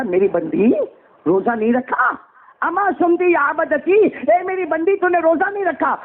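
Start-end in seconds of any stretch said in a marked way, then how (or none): 2.6-3.9 higher, slow and drawn out; God's solemn question. Acted. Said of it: "اللہ کہے گا،". 3.9-6.0 God questioning his servant. Acted. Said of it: "اللہ کہے گا،".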